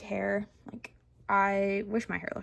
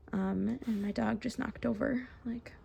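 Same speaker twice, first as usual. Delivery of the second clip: whisper aside; 7 dB quieter than usual. Real, not acted. Aside about dog.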